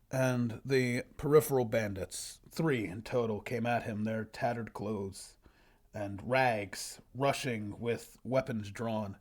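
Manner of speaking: slow, measured storybook reading; story narration. Acted. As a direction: read it out like a solemn fantasy tale. Reads own old story aloud.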